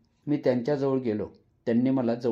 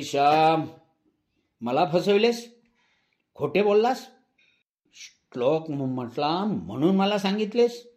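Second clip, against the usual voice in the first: scolding mother; 3 semitones higher, 4 dB louder than usual. Acted. Mother scolds son for lying.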